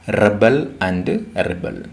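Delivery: "Rebel and rebel", REB-el then ri-BEL; first "Rebel" stressed front, second at the end; noun then verb. Shown as a demonstration. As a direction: contrast the two stresses in "Rebel and rebel". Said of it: "we pronounced it as rebel".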